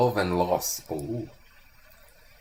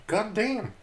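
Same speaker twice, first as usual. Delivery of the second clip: much higher, awed repeat; even more amazed god damn; 11 semitones higher than usual. Retold or imitated. Streamer reenacting his amazement, climbing higher. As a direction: top the first one with extra awe. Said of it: "adică eram".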